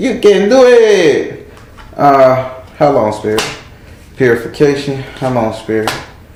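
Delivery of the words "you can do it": put-on Mexican accent, very slow and high. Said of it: "Mexican voice".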